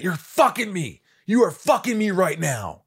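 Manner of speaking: imitated angry director. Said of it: "Something like that".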